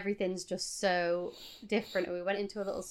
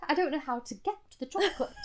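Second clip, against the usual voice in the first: higher-pitched, quick British protest; exaggerated British accent; 5 semitones higher, faster than usual. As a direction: rush it out in put-on British. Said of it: "in an exaggerated British accent".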